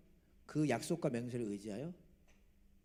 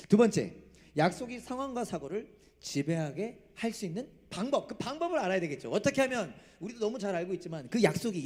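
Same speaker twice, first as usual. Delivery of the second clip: raised, emphatic pulpit delivery; forceful preaching; 6 semitones higher, 6 dB louder than usual. Real, not acted. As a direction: press each question on the congregation.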